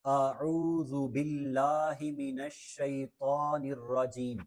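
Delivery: slow, drawn-out Arabic recitation; slow recitation demo. Shown as a demonstration. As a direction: recite slowly, lengthening the long vowels. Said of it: "دوبارہ سے ایک دفعہ سماعت کر لیجئے".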